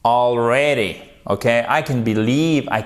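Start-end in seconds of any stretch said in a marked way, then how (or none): 0.0-1.0 "Already" said carefully with the stress on "rea"; teacher's model "Already", al-RE-dy; model tonic stress. Shown as a demonstration. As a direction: lean on the open "è" in the middle of "Already". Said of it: "Faites bien l'accent tonique ici".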